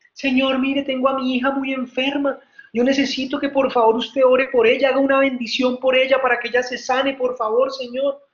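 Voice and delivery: mildly acted, insistent plea; tearful pleading. Mother begs a blessing for her sick daughter, mildly tearful pleading.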